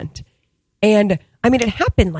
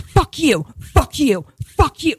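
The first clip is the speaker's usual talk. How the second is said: screaming; 5 semitones higher, slower than usual. Retold or imitated. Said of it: "I'm screaming".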